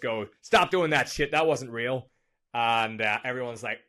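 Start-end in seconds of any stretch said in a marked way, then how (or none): 0.4-2.1 hammed-up, uncertain American accent, pitched up; Jordan Belfort. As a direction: scold the crowd in a shaky-attempt American accent. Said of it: "I don't know what that accent was".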